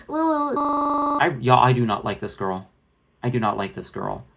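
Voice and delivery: mocking a YouTuber's condescending tone; a hint of smug condescension; condescending impression. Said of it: "more condescending versions of how she speaks".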